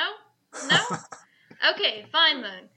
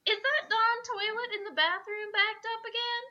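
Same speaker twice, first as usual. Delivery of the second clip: Texas housewife voice; 5 semitones higher than usual. Acted. Texas housewife banshee talking.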